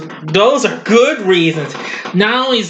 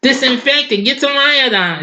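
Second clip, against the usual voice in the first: mock panic; 8 semitones higher than usual. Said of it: "It's like".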